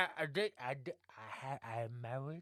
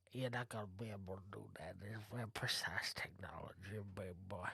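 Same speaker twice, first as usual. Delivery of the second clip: whispering; 7 semitones lower, 11 dB quieter than usual. Acted. NPC whispers a warning.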